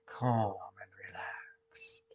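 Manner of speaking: slow, stretched-out calm words; calm, drawn out. Shown as a demonstration. Guide repeating words for the out breath, slow and calm.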